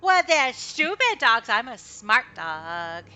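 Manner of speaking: an excited dog bragging; eager dog. Acted. The good boy answers Kai, loud eager puppy voice.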